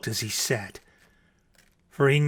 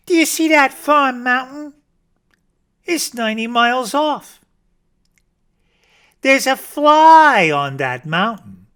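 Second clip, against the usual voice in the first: high, excited bragging; boastful rabbit; 8 semitones higher, 5 dB louder than usual. Acted. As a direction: reveal it like a marvel. Rabbit voice held.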